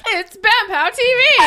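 slow, loud show announcer; big announcer voice. Acted. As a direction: boom it like an announcer.

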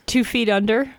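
squeals the words through laughter; high laughing disbelief. Real, not acted.

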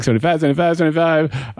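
auctioneer. Retold or imitated. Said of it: "still doing the auctioneer thing".

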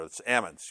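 "almonds" said without the L, like "AM-onds"; local "almonds". Shown as a demonstration. Pastor showing how ranchers say almonds. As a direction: knock the L out of "almonds". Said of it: "nobody calls them almonds there".

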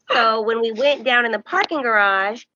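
ordinary talk, nothing marked

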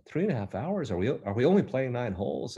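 high, shocked disbelief, imitating the golfer; mock-aghast at the long round; retelling a fellow golfer's alarm at three and a half hours; incredulous surprise. Woman shocked at round length.

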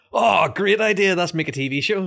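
high, loud, slow fake excitement; sarcastic gushing yes-man; mock enthusiasm. Mocking executives agreeing eagerly.

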